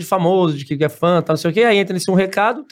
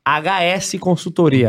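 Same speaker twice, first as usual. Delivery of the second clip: slow, spaced ad announcer; much slower than usual. Acted. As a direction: draw out the name like an ad jingle.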